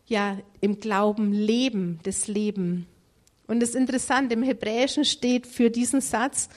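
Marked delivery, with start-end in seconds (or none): 0.6-2.9 "leben" weighted, then repeated as "das Leben"; stress on leben. Shown as a demonstration. Preacher shows the emphasis in Hebrews, stress on "leben". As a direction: put the emphasis on "leben", not "Glauben". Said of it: "hier liegt die Betonung auf".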